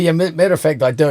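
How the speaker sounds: hint of an Indian accent, slightly stumbling; bad Indian accent. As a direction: slip briefly into an unconvincing Indian accent. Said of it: "It's a delightful accent".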